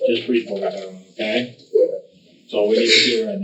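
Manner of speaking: calming. Real, not acted. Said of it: "tries his best to calm him down".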